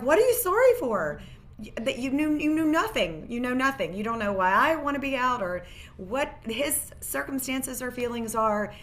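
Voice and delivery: replaying the moment she snapped at someone pitying her; lost it. To a coworker who said sorry, a retold exasperated outburst. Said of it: "And I just lost it".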